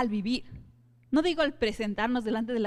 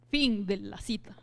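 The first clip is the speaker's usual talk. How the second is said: whispered aside; 3 semitones lower than usual. Real, not acted. Aside after the quotation.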